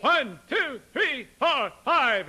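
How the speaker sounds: high, loud punched counting; called-out count. Shown as a demonstration. Teacher showing singers how to count, calling out. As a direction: call each number out separately. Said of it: "can you count to ten?".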